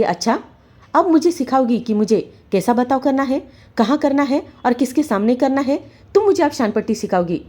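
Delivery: mock her for lecturing him; angry sarcasm. Husband sneering at wife's complaint, angry.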